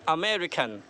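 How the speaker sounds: अमेरिकन with मे drawn out; stress on ME. Shown as a demonstration. Teacher models for repeat after me, long मे in अमेरिकन. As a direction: lengthen मे in अमेरिकन, let the rest fall. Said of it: "repeat after me".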